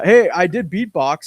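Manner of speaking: normal talking voice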